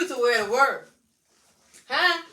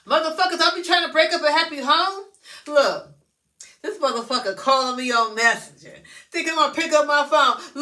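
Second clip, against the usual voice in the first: angry scolding; 4 semitones higher, 5 dB louder than usual. Real, not acted. Scolding the caller on Messenger.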